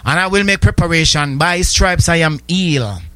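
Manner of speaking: fervent declaration of faith; preaching confession. Acted. Preacher voicing a believer's confession, fervent. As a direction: proclaim it like a prayer of faith.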